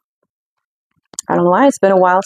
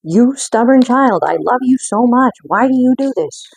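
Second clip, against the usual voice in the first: loving parent; 6 semitones higher, 3 dB louder than usual. Acted. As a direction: hiss it tenderly at a stubborn child. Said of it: "There's that protective anger".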